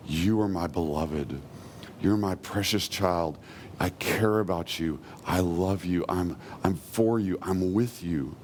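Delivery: low, gentle words of affection; tender divine reassurance. Acted. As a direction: reassure them as a loving father would. Voices what God says to listeners.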